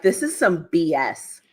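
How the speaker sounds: exasperated, emphatic mock outburst; acting out a fed-up teammate, hammering the words; frustrated Arthur Moats. Co-host acts out the annoyed Arthur to his face, mock frustrated. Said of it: "I love the Arthur Moats that is like".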